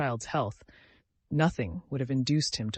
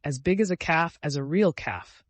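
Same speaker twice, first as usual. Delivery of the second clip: chiming in; 4 semitones higher, 5 dB louder than usual. Acted. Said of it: "chimed in the captain".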